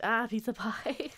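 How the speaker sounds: slow, hammed-up Italian accent; a deliberately bad Italian accent on pizza pie; joking bad Italian accent, slowly. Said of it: "Bad Italian accent".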